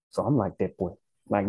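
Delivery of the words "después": "Después" echoed Dominican-style as "depwé"; mimicked Dominican accent. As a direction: drop the s sounds in "Después", copying a Dominican. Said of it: "I'm mimicking their voice".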